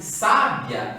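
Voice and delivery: "sábia" com força no SÁ; tônica na primeira sílaba. Shown as a demonstration. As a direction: diga "sábia" acentuando a antepenúltima sílaba, SÁ. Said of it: "ela está acentuada na antepenúltima sílaba". (palavra "sábia", proparoxítona, tônica em SÁ)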